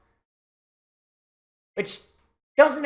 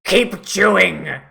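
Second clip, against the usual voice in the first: eager cheering; 8 dB louder, slower than usual. Real, not acted. Cheering a creature on, loud.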